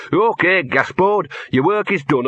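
imitating a solemn spirit guide; big dog of death. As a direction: act out a grand dog calling someone home. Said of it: "this big dog that trots up to you and says".

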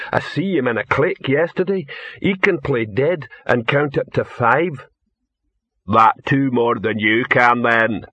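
lightly voiced lumbering troll; matter-of-fact troll voice; second troll. Second troll praising the dog, lightly voiced.

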